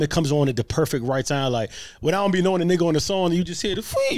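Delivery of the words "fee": higher-pitched "fee" mimicking an ad-lib whistle; quick high whistle-like sound; imitated whistle. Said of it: "you just hear the whistle".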